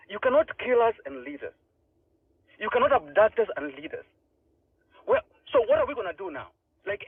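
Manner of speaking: rising emotional plea, pitch climbing high; emotional outburst. Real, not acted. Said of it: "sorry guys, I'm a little emotional".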